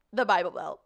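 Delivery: put-on Southern accent. Shown as a demonstration. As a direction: show off a Southern twang. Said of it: "The only one I can rock is Southern".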